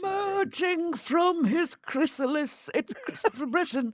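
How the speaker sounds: hushed nature documentary narrator. Introducing the co-host like a nature documentary: David Attenborough voice. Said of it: "that fantastic David Attenborough impression there".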